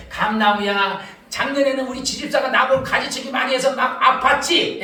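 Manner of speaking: low, fond talk to a tree; tender consoling. Retold or imitated.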